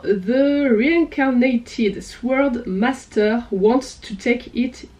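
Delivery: slow, careful English title in a French accent. Real, not acted. French booktuber apologizing for her accent, slow French-accented English. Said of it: "désolé pour mon accent".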